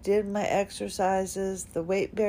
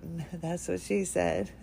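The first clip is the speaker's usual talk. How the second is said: laughing; 4 dB quieter than usual. Real, not acted. Joke while describing the throat.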